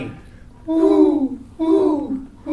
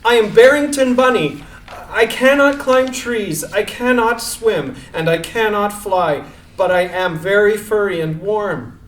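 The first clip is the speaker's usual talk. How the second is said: calling out. Acted. Rabbit calls down to mice.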